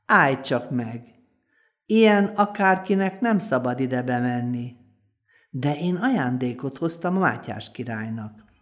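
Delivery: put-on lively folk-tale narration for children; storytelling voice. A narrator's reading. Storyteller telling children a folk tale, lively narration. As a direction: tell it like a bedtime tale to little ones.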